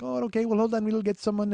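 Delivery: a hint of an airy, high hostess; lightly voiced hostess. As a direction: lift the pitch a little for the hostess. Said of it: "She's like".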